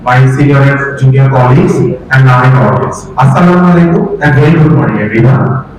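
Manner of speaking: hoarse from a sore throat; husky voice. Real, not acted. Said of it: "apologize because of my husky voice".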